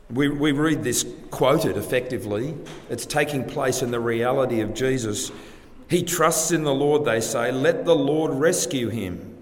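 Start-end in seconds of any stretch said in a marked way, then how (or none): 5.9-9.4 raised, louder sneering quote of the mockers; mocking taunt. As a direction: throw the crowd's jeer at him with scorn. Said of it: "They taunt Jesus".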